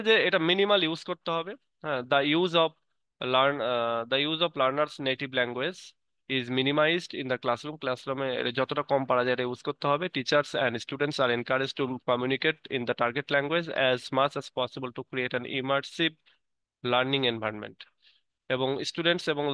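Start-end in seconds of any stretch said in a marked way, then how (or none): 2.0-7.8 slow, careful reading aloud word by word; teacher reading the English definition aloud slowly; slow textbook reading. Acted. Reads English text slowly. 10.1-17.8 slow, careful reading aloud word by word; teacher reading the English definition aloud slowly; slow textbook reading. Acted. Reads English text slowly.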